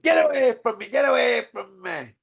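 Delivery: imitating an angry boxer; retold shout. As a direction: snarl it like a sore loser. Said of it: "Like that".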